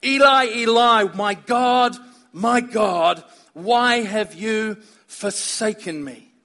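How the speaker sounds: loud cry on "Eli, Eli", fading to a slow ending; Jesus' loud cry from the cross; anguished cry. Acted. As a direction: call out, then let it sink slowly. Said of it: "What was Jesus' cry upon the cross?".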